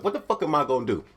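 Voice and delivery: fast, muttered to himself in a panic; panicked self-talk. Retold or imitated. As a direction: rush it out like you're panicking alone in a bathroom. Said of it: "I'm talking to myself".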